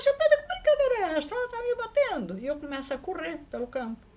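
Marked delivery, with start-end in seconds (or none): 0.0-2.4 panicked plea. Retold or imitated. Being hit, calling for help.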